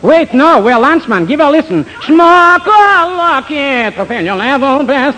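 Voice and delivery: overdone fake Southern charm; fake Southern accent. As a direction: play a phony Southern gentleman. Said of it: "pardon by me the southern accent".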